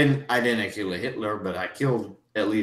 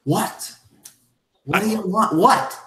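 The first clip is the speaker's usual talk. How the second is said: high, rising indignant demand; indignant what; 11 semitones higher, 4 dB louder than usual. Acted. Hamish confronting Randy's wordless look, high and indignant. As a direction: bristle at the stare, louder each time.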